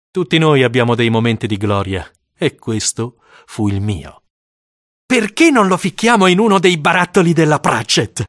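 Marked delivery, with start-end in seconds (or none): 5.1-8.2 schoolboy voice. Acted.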